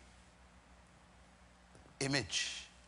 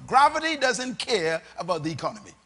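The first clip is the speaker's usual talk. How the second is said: said more slowly for clarity; slowed down; 3 semitones lower than usual. Shown as a demonstration. Preacher restating a point for the congregation, slowed down. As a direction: spell the point out at an unhurried pace. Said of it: "Let me say it slow".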